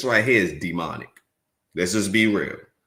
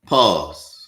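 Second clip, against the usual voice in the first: louder, commanding stop; loud pause call; 7 dB louder than usual. Real, not acted. Streamer shouting pause to viewers. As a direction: call out to halt the clip. Streamer halts debate playback.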